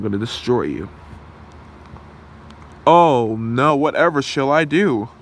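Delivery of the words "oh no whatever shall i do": sarcastic fake panic; mock fear. Villain mocks the hero's threat, sarcastic fake panic. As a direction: pretend to be scared, hammed-up.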